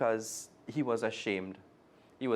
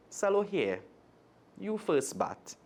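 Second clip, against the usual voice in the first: gleefully; 9 semitones higher, slower than usual. Acted. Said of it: "he said gleefully".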